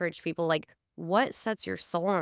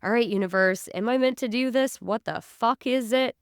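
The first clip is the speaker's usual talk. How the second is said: exasperated plea; 4 semitones higher, 4 dB louder than usual. Retold or imitated. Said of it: "I'm like".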